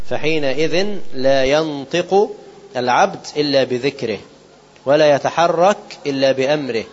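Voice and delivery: slow measured recitation of the sacred text; solemn slow quoting of scripture; hadith recitation. Acted. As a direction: recite it slowly, weighing each word. Reads quoted passage slowly.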